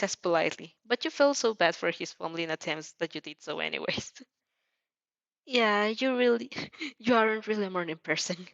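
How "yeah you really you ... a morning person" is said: words through a light chuckle; chuckling. A narrator's reading. Izuku teasing his sleepy friend, chuckling. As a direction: laugh it out fondly. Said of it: "he chuckles".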